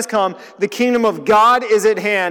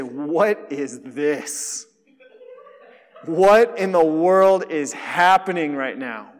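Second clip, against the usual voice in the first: amazed; 2 semitones lower, slower than usual. Acted. Congregation's amazed reaction, acted.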